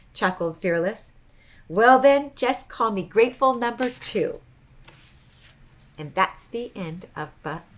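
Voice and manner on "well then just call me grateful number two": cheerful. A narrator's reading. Bluster's cheerful joke.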